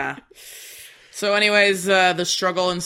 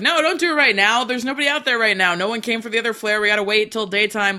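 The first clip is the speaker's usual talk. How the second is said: higher-pitched mock objection; retold protest; 4 semitones higher than usual. Brother objecting to setting off the flare, mock protest. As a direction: argue back as the worried brother, lightly.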